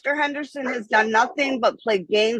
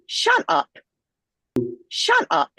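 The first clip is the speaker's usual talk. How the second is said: snapping shut up; 5 semitones lower, slower than usual. Real, not acted. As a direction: bark it at the noisy dog. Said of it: "I'm sorry?".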